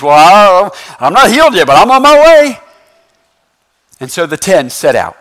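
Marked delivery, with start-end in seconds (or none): 0.0-2.6 hopeful resolve. Acted. A leper heads for the priest, hopeful. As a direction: build in eagerness to the last words.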